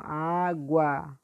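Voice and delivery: "Água" with a lengthened Á; teacher marking Á in "Água"; stressed strong syllable. Shown as a demonstration. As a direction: lean on the first "á" in "Água". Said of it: "puxando mais a sílaba forte".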